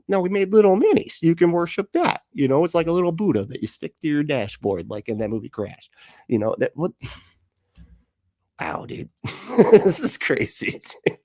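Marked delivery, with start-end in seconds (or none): 0.1-5.9 mock eager salesman. Mocking Christian nationalists.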